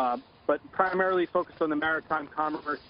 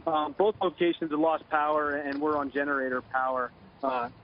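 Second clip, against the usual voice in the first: phone line; 6 semitones lower, 3 dB quieter than usual. Real, not acted. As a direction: voice over a telephone line. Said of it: "Joining us now on the phone".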